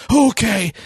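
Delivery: mock sheepish camper agreeing; meek okay. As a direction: give a small guilty okay.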